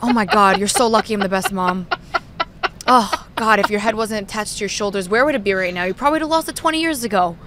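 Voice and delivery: lightly hammed-up exasperated mother; mad mother. Daughter imitating mother's nagging, mock exasperation. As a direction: nag your scatterbrained daughter in mock despair. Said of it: "best interpretation of your mad mother".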